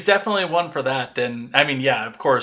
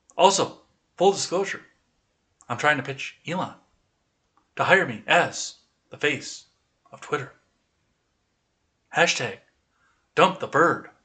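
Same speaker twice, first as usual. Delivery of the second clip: overacted halting delivery, three words at a time. Reading a tweet aloud as imagined: William Shatner voice, overacted. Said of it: "read it the way that I read it in my head ... because it's Shatner, overacted, and three words at a time".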